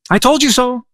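told leaned on, pitched well up; whiny I-told-you-so, voice jumps high; indignant told you so. Retold or imitated. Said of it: "Jonah says".

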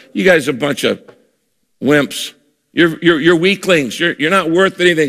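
mild mock taunt, not really shouted; giant's taunt. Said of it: "he taunts and he shouts and he goes".

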